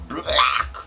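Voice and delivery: mock big-man growl; exaggerated booming soldier voice; deep-voiced soldier. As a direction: imitate a huge man's deep voice. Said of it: "this guy had a deep voice".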